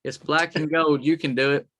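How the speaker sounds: mild call across a distance; retold holler. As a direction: raise the voice a little, as if hollering to a buddy. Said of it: "he hollered back at me".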